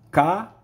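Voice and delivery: "Cavalo," said loud and split into syllables; teacher modelling syllables; syllable-timed. Shown as a demonstration. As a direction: sound out "Cavalo," in pieces. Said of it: "são pedacinhos".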